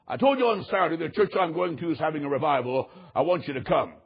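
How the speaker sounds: measured, matter-of-fact insistence, dropping low at the end; retold firm insistence. Boss reminds his employees of Saturday's invitation, firmly insisting. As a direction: lay it down firmly, ending low.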